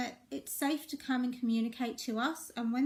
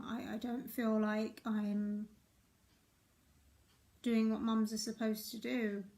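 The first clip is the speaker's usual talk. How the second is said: slow vulnerable; slower than usual. Shown as a demonstration. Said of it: "I could have said to myself".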